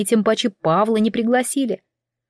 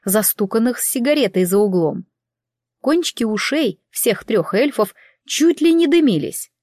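usual speaking voice

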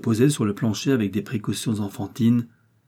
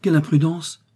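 moaning; 7 semitones higher, 5 dB louder than usual. A narrator's reading. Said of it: "gémit madame Pascal".

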